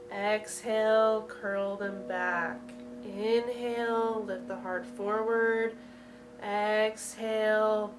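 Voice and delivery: drawn-out inhale and exhale calls; guided breathing cues. Real, not acted. Yoga teacher leading spinal flexes in time, guided breathing cues. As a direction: pace each cue to a slow breath.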